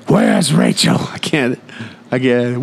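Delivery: hammed-up movie-hero shouting; mock yelling. Batman demanding to know where Rachel is, mock yell. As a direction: imitate Batman's strained demand. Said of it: "Just yelling that".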